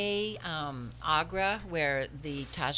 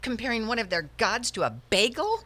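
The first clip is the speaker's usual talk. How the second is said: higher-pitched scandalized question; appalled reproach; 4 semitones higher, 4 dB louder than usual. Acted. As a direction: scold her in disbelief. Acted quarrel, reproaching her friend.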